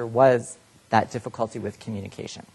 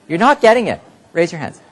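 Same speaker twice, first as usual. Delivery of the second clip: frustrated; 6 semitones higher, 8 dB louder than usual. Retold or imitated. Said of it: "you hear yourself saying".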